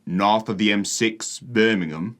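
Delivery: slow, drawn-out northern English mimicry; imitated northern English accent. Vlogger repeating the Leeds man's phrase, northern English accent. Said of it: "He said".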